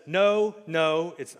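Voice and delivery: anguished Luke in disbelief; Luke's denial. Acted. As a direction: cry out in denial. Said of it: "he says".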